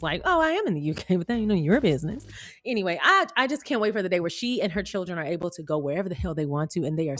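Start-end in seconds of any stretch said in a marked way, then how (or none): 0.2-2.3 sassy. Pretend. Acts Meghan's sassy reply.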